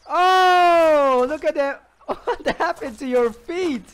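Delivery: high, loud cry breaking into laughter; amazed outcry. Real, not acted. Player seeing a zombie's feet gone, amused amazement. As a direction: exclaim in laughing disbelief.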